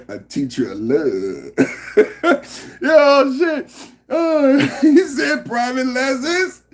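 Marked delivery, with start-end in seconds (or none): 0.1-1.5 lower, slow cartoon kid voice; a lightly done Cartman impression. Repeating the chat line in a Cartman voice. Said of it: "You gotta say it in the Cartman voice".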